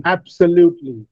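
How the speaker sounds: "absolutely" with the first syllable prominent; first-syllable stress. Shown as a demonstration. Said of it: "the first syllable is stressed".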